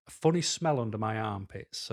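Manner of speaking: ordinary talk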